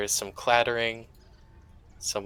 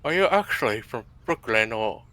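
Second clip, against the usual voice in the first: put-on British accent; 3 semitones higher, 3 dB louder than usual. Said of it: "Maybe it's the British accent".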